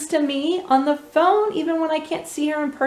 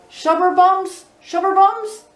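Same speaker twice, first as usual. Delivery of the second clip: mild mock shout; 7 semitones higher, 5 dB louder than usual. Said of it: "shouted Clement Junior around his thumb".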